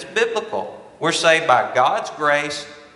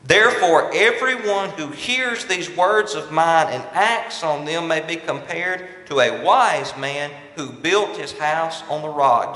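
scripture reading; 2 semitones higher than usual. Acted. Pastor reading the verse to his congregation, raised and solemn. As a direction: proclaim it like holy writ to the pews.

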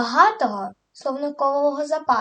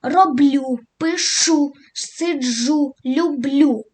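«Роблю», «пишу», «сиджу», «люблю» louder on the last syllable; stress on last syllable; 4 dB louder, much slower than usual. Shown as a demonstration. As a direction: punch the final syllable of each verb. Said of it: "наголошуємо останній склад".

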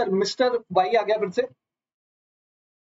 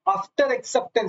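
slow stress; 2 semitones higher, much slower than usual. Shown as a demonstration. Teacher stresses key term.

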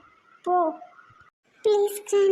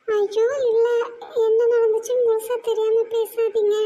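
higher, tearful denial; crying protest; 3 semitones higher than usual. Acted. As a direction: protest through tears. Bride denies accusation, crying. (அழுதுகொண்டே மறுப்பு)

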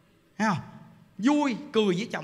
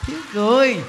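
emphatic repeat; 3 semitones higher, 5 dB louder than usual. Shown as a demonstration. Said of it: "Thiếu gì biết không".

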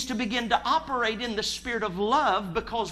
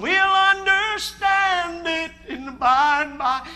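mock pious resignation; 7 semitones higher, 8 dB louder, slower than usual. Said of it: "get drunk on".

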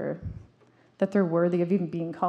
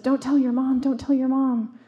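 higher, louder panicked plea; retold panic; 6 semitones higher, 5 dB louder than usual. Neighbor boy begs after breaking the trampoline net, mock panicked. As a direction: imitate a scared boy begging. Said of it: "and he panicked".

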